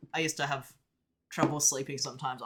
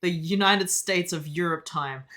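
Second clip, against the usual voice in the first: mock grand; 3 semitones higher, 6 dB louder than usual.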